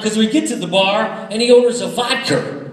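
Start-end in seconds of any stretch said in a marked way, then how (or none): 1.9-2.7 "vodka" ending in a hard R, as "vodker"; mock Boston "vodka" with an intrusive R; R added to vodka. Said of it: "he does know how to make an R sound".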